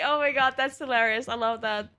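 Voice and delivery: ordinary talk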